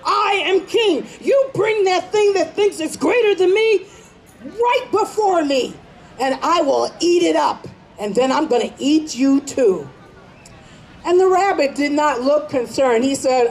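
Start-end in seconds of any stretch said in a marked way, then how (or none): 0.0-9.9 lion roaring out his claim; boasting lion. Acted.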